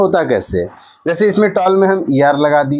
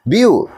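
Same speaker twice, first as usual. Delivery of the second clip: "ब्यू" cut off as a separate beat; first syllable alone; 3 semitones higher, slower than usual. Shown as a demonstration. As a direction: say just "ब्यू", then stop. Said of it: "एक बार ब्यू बोले".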